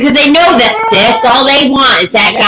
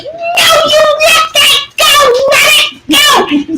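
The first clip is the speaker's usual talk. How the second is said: retold yell at dog; 12 semitones higher, slower than usual. Owner yelling at her dog to drop the chipmunk, high shout. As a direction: bellow it to make the dog let go.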